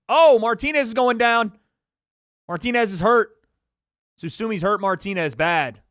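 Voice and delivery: loud, high fight call; excited call. Real, not acted. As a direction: yell the knockdown live. Live fight call, boxer going down.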